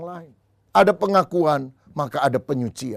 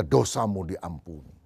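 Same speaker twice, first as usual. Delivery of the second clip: lower, slow, gentle "Dosamu diampuni"; solemn pronouncement; 8 semitones lower than usual. Acted. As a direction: angel to Isaiah, slow solemn blessing. Angel declares sins forgiven.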